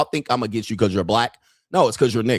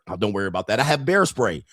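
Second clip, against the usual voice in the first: breezy dismissal; 4 semitones lower than usual. Retold or imitated.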